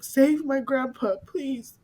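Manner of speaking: retold tearful plea. Son begging for grandpa to be saved, retold tearful plea. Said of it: "crying and saying".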